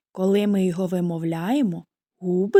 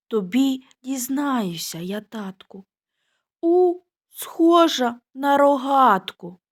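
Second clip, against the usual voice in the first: little sparrow; 4 semitones higher than usual. Acted. Second sparrow answers.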